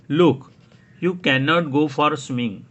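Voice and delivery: firm grown-up. Acted. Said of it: "बड़े क्या बोलते हैं".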